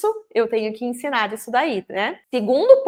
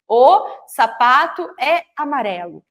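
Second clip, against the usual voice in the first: slow, even read; 3 dB louder than usual. Shown as a demonstration. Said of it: "quantas palavras tem dentro da frase".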